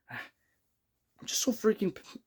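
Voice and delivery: sighing, whispered and slow; exasperated whisper. Real, not acted. Fan whispers frustration over Leafs loss, slow. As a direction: breathe it out, barely voiced.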